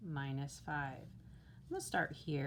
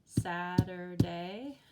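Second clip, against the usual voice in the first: "Butterfly" loud, slow, each of three beats hit; teacher claps out "Butterfly" beat by beat; clapping out syllables; 8 dB louder, much slower than usual. Shown as a demonstration. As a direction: clap out "But-ter-fly" slowly and loudly. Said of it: "let's tap it out or clap it out".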